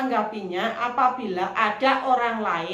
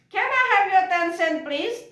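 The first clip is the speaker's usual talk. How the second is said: courteous, raised but friendly ask; polite request; 9 semitones higher than usual. Shown as a demonstration. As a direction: ask the room nicely but clearly. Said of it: "cara yang lebih sopan". (permintaan sopan namun keras)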